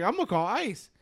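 mock-serious threat, said straight; deadpan joke threat; teasing threat. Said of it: "I was like, straight up".

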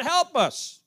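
high, loud cry for help. Acted. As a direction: call out desperately to the gods for help. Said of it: "they're crying out to their gods".

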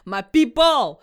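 loud, high playful holler; rallying call. Real, not acted. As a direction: call out to your people through laughter. Hyped-up appeal to compatriots.

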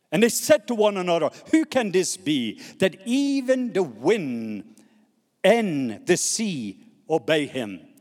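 emphatic Bible reading slowing to the end; scripture reading. Acted. Preacher reading the disciples' wondering question, emphatic and slowing. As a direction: stretch out the last phrases with weight. Reads scripture aloud to congregation.

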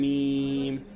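ميم begun on a long held nasal hum; idgham with ghunna. Shown as a demonstration. Teacher showing the opposite case, long nasal merge into ميم. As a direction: hold the doubled m of ميم, then stretch it. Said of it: "والعكس في طاسين ميم".

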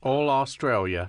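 put-on a weak stab at an Australian accent. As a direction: try an Aussie twang, not quite landing. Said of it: "That is not an Australian accent".

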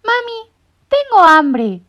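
very high, slow, loud chick whine; hungry chick. A narrator's reading. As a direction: interrupt mom with hunger. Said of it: "los interrumpió el pollito". (pollito hambriento, muy agudo)

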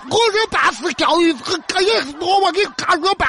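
slurred speech with a thick tongue; tongue-tied slur. Acted. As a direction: mumble through a swollen tongue. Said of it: "老子怕你舌头咬断了你".

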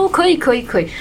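imitating the driver. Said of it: "他说".

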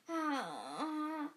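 loud impatient call; mother calling from downstairs. A narrator's reading. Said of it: "rief eine Frauenstimme".

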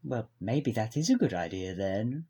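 lightly voiced stuffy posh gent; a hint of a posh old gentleman; posh man. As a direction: play a prim upper-class record boss. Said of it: "Giles is a posh man".

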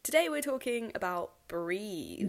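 dramatic announcement. Pretend. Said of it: "I don't know why I said it like that".

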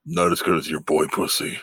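exaggerated Australian twang, played for a laugh; mock Australian accent. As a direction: imitate an Australian bloke, lightly hammed. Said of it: "That was a good accent".

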